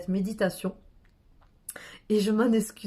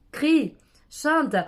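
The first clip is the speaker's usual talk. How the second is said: crie, chante shouted out, louder and higher; 6 semitones higher, 4 dB louder than usual. Shown as a demonstration. Guide shouting to the listeners to let go. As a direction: call out crie, chante full force. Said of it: "je vais le faire avec vous".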